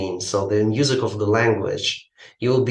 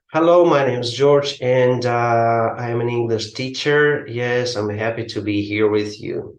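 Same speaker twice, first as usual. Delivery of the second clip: stiff reading aloud. Shown as a demonstration. Teacher mimics a student's selfie video, read aloud stiffly. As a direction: sound like a student reading from a script. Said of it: "it wouldn't be speaking, it would be reading".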